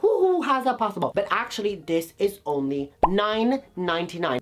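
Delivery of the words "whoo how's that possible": mock dizzy surprise. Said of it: "You're gonna feel like".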